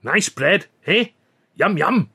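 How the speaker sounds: coaxing sing-song tempting; cooing. A narrator's reading. Billy tempting the ostrich with bread, cooing. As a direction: dangle it like a treat. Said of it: "Richie cooed again".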